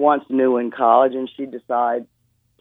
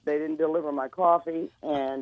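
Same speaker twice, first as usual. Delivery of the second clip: raspy voice; 6 dB quieter than usual. Real, not acted. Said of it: "Forgive my raspy voice".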